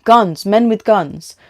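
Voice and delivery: loud, high panicked shout; panicked, breathless. A narrator's reading. Lisa warns Han after running, breathless panic. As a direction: gasp out the warning, out of breath. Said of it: "panting for breath".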